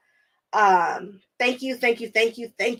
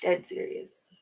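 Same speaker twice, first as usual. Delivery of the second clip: whispered, voiceless and soft; 9 dB quieter, slower than usual. Shown as a demonstration. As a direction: lean in and whisper it like a secret. Deadpan repeat of a claim.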